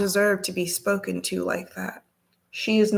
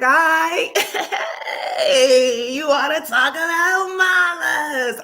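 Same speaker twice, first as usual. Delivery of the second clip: mock tough challenge; 7 semitones higher, 4 dB louder, slower than usual. Squaring up to the rude lady.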